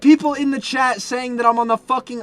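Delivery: high, loud exasperated yelling; incredulous shouting, drawing out the question; outraged disbelief. Real, not acted. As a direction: yell in baffled outrage. Outraged at chat claims about him.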